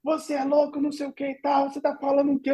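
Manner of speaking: high, hushed muttering crowd; customers scoffing. Retold or imitated. Customers at the bakery: high, soft scornful muttering.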